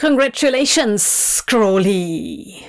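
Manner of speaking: loud, buzzing, resounding booming voice. Sitting high on a throne, congratulating someone below, buzzing loudly. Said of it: "Beelzebub buzzed loudly".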